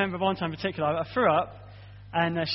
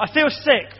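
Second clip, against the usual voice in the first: put-on higher, louder child's complaint; whiny sick kid; 6 semitones higher, 7 dB louder than usual. Father voicing his child complaining at night, higher and louder. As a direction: play the sick child whining to dad.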